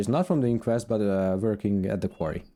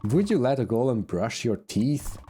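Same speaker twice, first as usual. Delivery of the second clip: high, proud quarry worker voice; raised voice of a haughty crew boss; high-pitched NPC woman; 3 semitones higher than usual. Acted. Voicing sister NPC.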